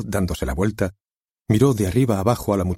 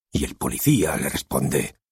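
lightly voiced director; 2 semitones lower than usual. Director conjures the opening scene for the author, lightly voiced. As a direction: paint the scene, drawing him in.

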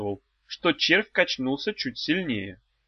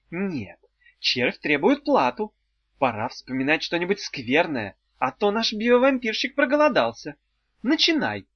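high, commanding witch; 4 semitones higher than usual. Acted. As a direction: order them like a witch.

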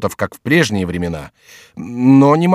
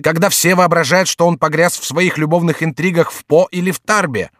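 loud soapbox ranting; 7 semitones higher, 3 dB louder than usual. Acted. Orator reveals enemy to crowd.

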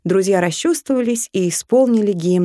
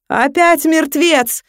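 испуганный возглас; 9 semitones higher, 4 dB louder, slower than usual. Acted. Испуганный крик гнома.

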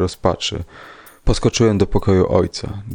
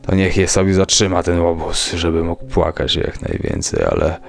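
sinister villain; 2 semitones lower than usual. A narrator's reading. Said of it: "syczał przy tym sopleniec".

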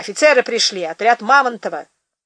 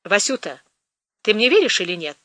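sympathetic. Acted. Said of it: "участливо положил ей на плечо руку".

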